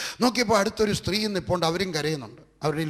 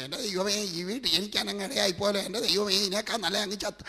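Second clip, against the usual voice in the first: softer, moaning complaint to God; a hint of a weary, defeated plea; mock despairing prayer; 6 dB quieter than usual. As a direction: play the wrong, hopeless way to pray. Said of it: "അങ്ങനെയല്ല പറയണം".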